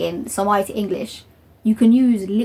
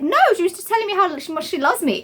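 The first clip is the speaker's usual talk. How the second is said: laughing reply; 8 semitones higher than usual. Retold or imitated.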